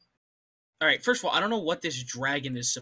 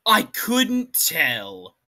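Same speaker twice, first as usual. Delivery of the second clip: very slow, louder sarcastic drawl; 7 dB louder, much slower than usual. Real, not acted. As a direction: drag it out sarcastically. Sarcastic reply.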